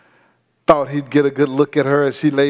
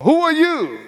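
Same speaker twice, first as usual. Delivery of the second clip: high, shocked "who are you"; groom's alarmed cry, pitched high; stunned question; 13 semitones higher than usual. Acted. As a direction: ask it as if a stranger lies beside you. Jacob wakes to wrong bride.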